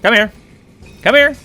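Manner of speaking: loud taunting yell; hotheaded shouting. Real, not acted. Taunting enemies in boss fight.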